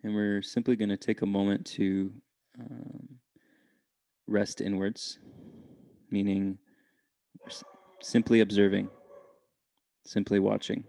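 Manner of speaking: unhurried meditation guide with long pauses; calm, measured meditation voice; guided meditation. Real, not acted. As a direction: gently lead listeners inward, leaving space between phrases.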